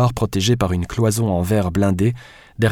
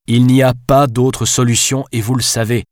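hammering each word, louder and higher; firm, emphatic raised-voice insistence; raising his voice; 4 semitones higher, 5 dB louder than usual. Acted. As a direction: insist forcefully, pounding it home. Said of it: "martela-t-il en élevant la voix".

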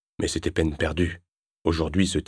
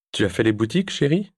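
high, teasing sing-song; mocking; 5 semitones higher than usual. Ex-wife teasing him about the shopping bags. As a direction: tease him with it. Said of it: "se moqua-t-elle".

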